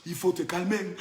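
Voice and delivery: low, soft and measured; hushed warning. Acted. Telling the rival to calm down, low and hushed. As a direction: say it softly, well down in pitch. Hushed take before loud one.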